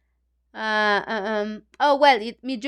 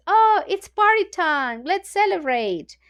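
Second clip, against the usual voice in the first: higher-pitched, mildly excited teacher; cheerful announcement; 6 semitones higher than usual. Acted. Teacher starts the class party, mildly excited.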